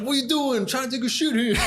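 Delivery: high, squeaky mascot yelling from the stall; mock outrage. Mascot caught in the stall, shrieking high and indignant. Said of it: "pretending I'm taking a shit".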